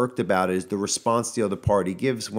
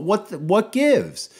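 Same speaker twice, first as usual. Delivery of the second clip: exasperated mock; 12 semitones higher, 4 dB louder, much slower than usual. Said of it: "And it's like, hey".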